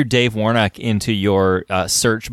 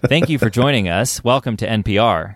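flat monotone radio read; bad acting. Shown as a demonstration. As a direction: read it with no inflection. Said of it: "not have inflection in your voice".

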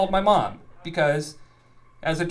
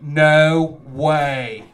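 amazed mom; 9 dB louder than usual. Retold or imitated. Mom sees the signed wall.

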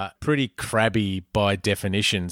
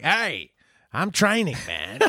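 mock casual excuse; 6 semitones higher than usual. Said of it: "It's like".

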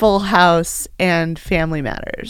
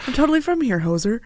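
mock Canadian accent; 3 semitones higher, 3 dB quieter, faster than usual. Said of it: "the Canadian accent".

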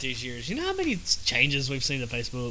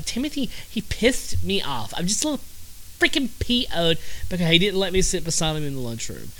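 lightly voiced sulky schoolkid, a bit higher; mock whiny kid; 3 semitones higher than usual. Podcaster voicing his childhood self as a sulky schoolkid. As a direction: play the pouty kid griping about lunch, slightly raised pitch. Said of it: "let's go with the voice".

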